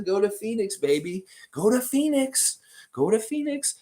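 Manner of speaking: hammed-up Barkley urging a move to Phoenix; Charles Barkley impression. Host reading a chat comment as Barkley, mock Barkley voice. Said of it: "Barkley says".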